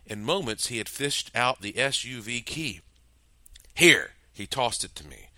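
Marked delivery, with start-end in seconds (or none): 3.7-4.1 loud sharp order; barked command. Acted. Peck orders the narrator to take the key, loud. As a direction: bark it like a command.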